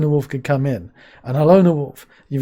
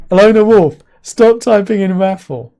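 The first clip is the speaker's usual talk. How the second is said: mock scold; 4 semitones higher, 7 dB louder than usual. Real, not acted. Scolding troll viewer.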